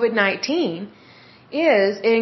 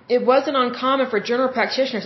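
speaking through hiccups; words broken by a hiccup. Real, not acted. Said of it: "excuse me, I have the hiccups".

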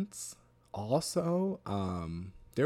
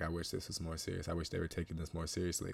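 inner thought; 4 semitones lower, 7 dB quieter than usual. Retold or imitated. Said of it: "in my head, I'm like".

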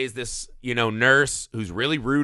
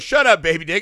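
retold insult; 3 semitones higher, 7 dB louder than usual. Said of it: "And she just goes".

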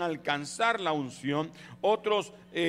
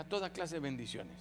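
much softer, lower list; 7 semitones lower, 9 dB quieter than usual. Acted. Preacher listing blessings softly and low. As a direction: murmur the list quietly.

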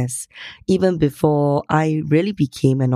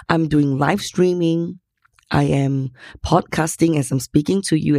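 hoarse, worn-out voice; lost voice. Real, not acted. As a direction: speak through a lost voice. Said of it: "As you can hear, I've lost my voice".

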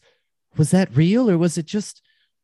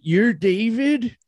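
shocked; 8 semitones higher, 4 dB louder, much slower than usual. Acted. Stunned at meeting David.

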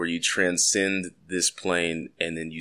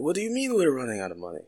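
fast put-on Scottish voice, a bit softer; a Venezuelan official done in a Scottish brogue by accident; imagined president, hammed-up Scottish accent; mock Scottish accent; 5 semitones higher, 4 dB quieter, faster than usual. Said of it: "Why are they Scottish?".

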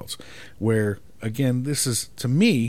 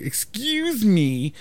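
slow, much higher, stretched "Excuse me"; attitude excuse me; 9 semitones higher, much slower than usual. Shown as a demonstration. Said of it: "attitude where you're like".

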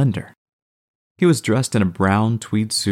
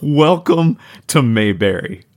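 mocking; 5 semitones higher, 5 dB louder than usual. A narrator's reading. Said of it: "laughed, making light of the accusation".

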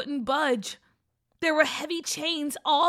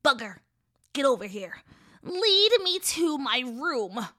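ordering witch; 5 dB louder than usual. Acted. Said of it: "the old woman ordered Gigi".

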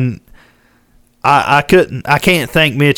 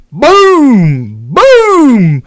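two loud booms, the second much higher; imitated gunshots; 9 semitones higher, 5 dB louder than usual. Telling a friend about the elk shot, imitated booming gunshots. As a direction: mimic the rifle shots going off. Imitating rifle shots in story.

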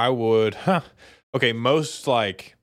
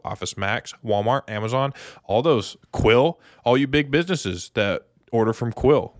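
upbeat sponsor pitch; ad read. Acted. Host reading the sponsor ad to listeners, upbeat ad read. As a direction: sell it like a podcast ad.

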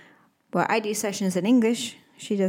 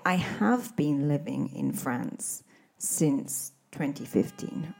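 slow, careful teacher demo; slow model sentence; 4 semitones lower, 4 dB quieter, slower than usual. Shown as a demonstration. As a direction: spell out the correct form slowly. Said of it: "You would say".

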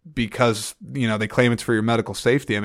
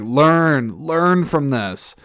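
higher, slow, imploring plea; pleading; 5 semitones higher, 3 dB louder, much slower than usual. Retold or imitated. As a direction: beg him slowly to learn from it. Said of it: "pleading with him".

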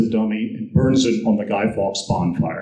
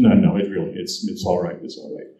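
gentle reassurance; 5 semitones lower than usual. Retold or imitated. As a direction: soothe him, let it fall to almost nothing. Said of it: "she was very gracious and forgiving".

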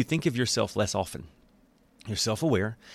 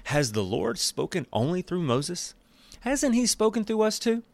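mock whiny complaint; 8 semitones higher than usual. Quoting Miriam and Aaron's complaint.

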